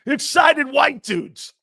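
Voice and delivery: stretched-out announcing of the name; savoring the name. Real, not acted. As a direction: roll the podcast name out slowly, relishing it.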